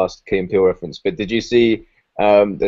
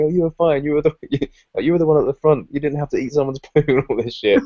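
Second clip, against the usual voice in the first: laughing reassurance; 6 semitones higher than usual. Retold or imitated. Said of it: "he's, like, going".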